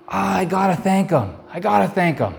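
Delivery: inner voice. Retold or imitated. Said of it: "something within me said".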